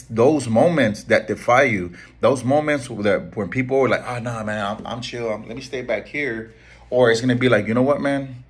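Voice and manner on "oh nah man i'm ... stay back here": softer, mumbled hanging-back excuse; imitating a hesitant person backing away; mock timid excuse. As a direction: play the guy who wants to stay comfortable. Imitating someone shrinking from challenge.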